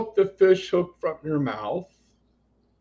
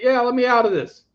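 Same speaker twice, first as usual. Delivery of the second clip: tarot figure; 9 semitones higher, 5 dB louder than usual. Retold or imitated. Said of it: "This guy's like".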